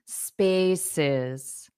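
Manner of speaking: "spaces" with stress on the first syllable, falling away; slow teacher's "spaces", weight on "spa". Shown as a demonstration. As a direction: stretch the start of "spaces", let the ending drop. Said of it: "syllable stress on the first syllable".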